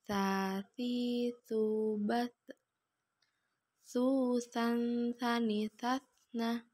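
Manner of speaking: "Sa, si, su" mengalun, dengung "Susan" ditahan; ayun dan tahan. Shown as a demonstration. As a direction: ayun vokalnya, tahan n pada "Susan, sani, satna". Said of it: "perhatikan ayun suaranya". (suara diayun lalu ditahan pada "Susan")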